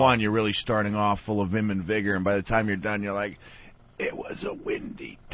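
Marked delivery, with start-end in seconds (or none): 4.0-5.3 drained, whispery monotone read; tired monotone. Retold or imitated. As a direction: read it flat, all energy gone. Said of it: "You're all monotone".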